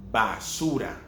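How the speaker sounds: "Basura" with a firm b, lips together; hard b at the start of "Basura"; strong b. Shown as a demonstration. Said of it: "strong sound".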